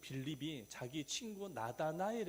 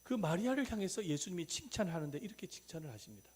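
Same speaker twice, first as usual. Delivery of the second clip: ordinary talk, nothing marked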